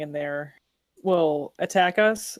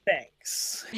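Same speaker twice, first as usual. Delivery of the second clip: whisper; 5 dB quieter than usual. Real, not acted. Whispered sarcastic thanks.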